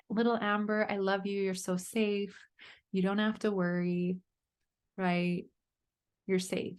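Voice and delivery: tender, hushed reassurance; soothing inner child. Pretend. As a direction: comfort a frightened little girl gently.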